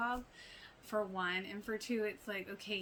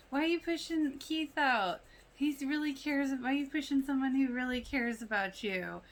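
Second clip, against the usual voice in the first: imitating a raised, pushing voice, higher and louder; mock confrontation, higher and louder; heated plea; 5 semitones higher, 6 dB louder than usual. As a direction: press the question hard as if pleading with mom. Retelling Lucas confronting his mom.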